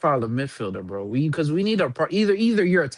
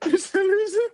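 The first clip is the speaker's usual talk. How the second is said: laughing; 4 dB quieter, slower than usual. Retold or imitated. Joining the mock manager impression.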